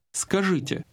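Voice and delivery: ordinary talk, nothing marked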